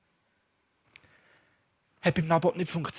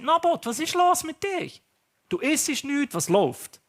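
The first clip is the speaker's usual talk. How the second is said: higher, louder mock wife asking what's wrong; queen Jezebel questioning the sulking king, pitched up; concerned wife; 7 semitones higher, 4 dB louder than usual. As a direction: play the worried queen, voice pitched up. Wife questioning her husband.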